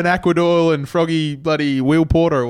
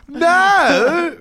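high, loud flustered no; embarrassed protest; 13 semitones higher, 4 dB louder than usual. Real, not acted. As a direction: blurt it out, caught out. Embarrassed protest about girlfriend.

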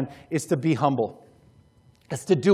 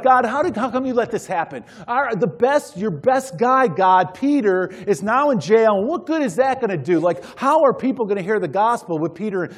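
imitated complaint to God, pitched up; mock whining; 5 semitones higher than usual. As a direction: protest as if let down, half in jest. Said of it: "they aren't whining about the fact".

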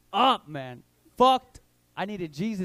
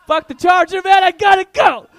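1 frantic shout; 11 semitones higher, 16 dB louder than usual. Retold or imitated. Frantic rush bit.

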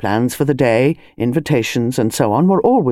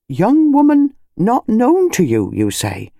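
higher, slower startled question; surprised query; 8 semitones higher, slower than usual. Acted. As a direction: sound taken aback. Constable surprised on phone.

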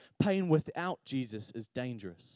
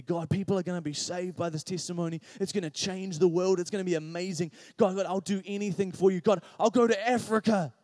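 frantic bargaining prayer; 3 semitones higher than usual. Retold or imitated. Preacher retelling bargaining with God for Damien, building frantic plea. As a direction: bargain with God, quicker and more desperate. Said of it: "I prayed like mad".

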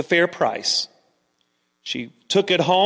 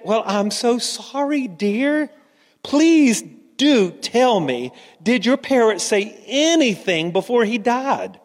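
higher, drawn-out condolence; acted sympathy; 3 semitones higher than usual. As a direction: console her with slow, pleading concern. Manager consoles the bereaved customer.

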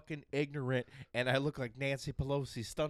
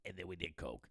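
quiet; 8 semitones lower, 10 dB quieter than usual. Pretend. Dropped voice confession.

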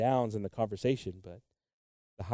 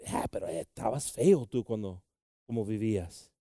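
the enemy mocking; 4 dB quieter than usual. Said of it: "que el enemigo dice".

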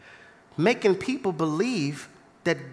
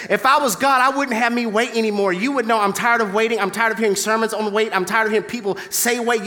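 whiny prayer to God; faster than usual. Retold or imitated. Believer complaining to God, mock impatient. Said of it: "You're saying".

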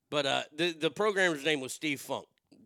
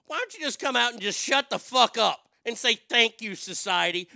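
angry rant; 5 semitones higher, 4 dB louder than usual. Real, not acted. Continuing rant, mock speech.

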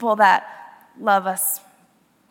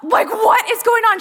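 higher, bewildered question; confused; 9 semitones higher, 4 dB louder than usual. Retold or imitated. Driver baffled by brake-slamming, bewildered. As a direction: toss it up in confusion. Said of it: "So I'm like".

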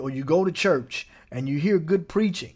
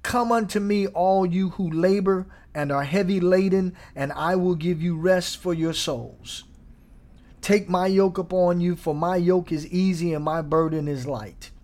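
voicing Jesus; 2 semitones higher than usual. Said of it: "Jesus says".

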